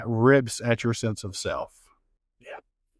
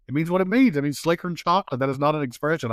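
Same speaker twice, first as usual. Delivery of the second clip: higher-pitched insistent retort; mock exasperation; 5 semitones higher, faster than usual. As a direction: insist it's obvious, retelling your own comeback. Retold exasperated reply to colleague.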